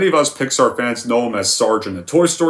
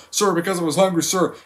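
higher, timid recruit answering; Private Pyle; 6 semitones higher than usual. Retold or imitated. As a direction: answer meekly, staying at attention. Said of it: "How does the scene go?".

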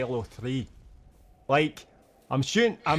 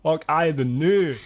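slow, louder fake Scottish mumble; mock Scottish accent; 2 semitones higher, 6 dB louder, slower than usual. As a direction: mangle the words in a put-on Scottish brogue. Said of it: "my accent is so loud".

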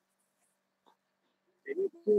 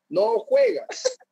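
drawn-out, much higher teasing singsong; sing-song taunt; much slower than usual. Retold or imitated. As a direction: stretch it up high like a schoolyard taunt. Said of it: "le dice".

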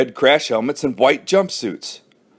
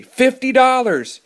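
high, drawn-out cry of dismay; dismayed exclamation; 11 semitones higher than usual. A narrator's reading. Alan panicking over what losing will cost, dismayed. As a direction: wail it high and slow. Worried boy despairs over the bet.

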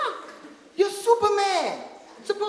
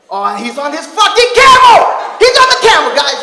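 soldier shouting; 2 semitones higher, 15 dB louder than usual. Acted. Soldier shouting to his squad about the camel. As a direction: yell it to the squad, exasperated.

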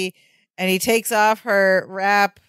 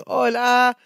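higher mock Mexican accent; 4 semitones higher than usual. Co-host retells Larry at the door, Mexican accent. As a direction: imitate a Mexican accent, pitched up. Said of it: "in a Mexican accent".

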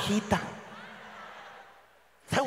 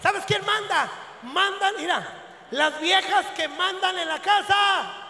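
loud punchline; 4 semitones higher, 4 dB louder than usual. Acted. Punchline shouted to crowd.

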